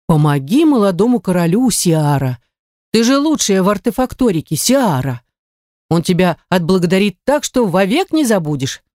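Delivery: lightly mimicked mentor, sing-song nagging; mocking the curator. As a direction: parrot her mentor's pep talk, mockingly. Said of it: "передразнила своего куратора". (передразнивая куратора)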